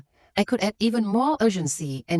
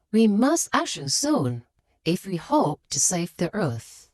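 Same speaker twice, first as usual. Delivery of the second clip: passionate. Shown as a demonstration. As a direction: urge them with weighty key words. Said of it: "you might passionately say".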